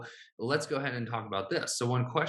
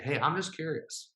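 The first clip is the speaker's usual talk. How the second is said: lilting, higher friendly ask; light curious tone; 5 semitones higher than usual. Shown as a demonstration. Coach modelling a friendly opener, lightly curious. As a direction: sound casually curious. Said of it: "That's another way to say it".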